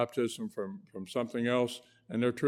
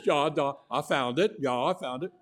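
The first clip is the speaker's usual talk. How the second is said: lightly imitated German doctor, a bit raised and louder; German doctor accent; 3 semitones higher, 4 dB louder than usual. German doctor finding the patient's nerve, light German accent. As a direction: play the pleased German doctor with a hint of accent. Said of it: "in real strong German accent".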